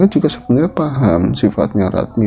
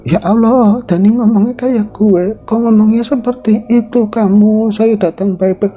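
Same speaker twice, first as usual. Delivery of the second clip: high, louder dismayed appeal; Nyi Suti pleading; 12 semitones higher, 3 dB louder than usual. Acted. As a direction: plead gently but upset.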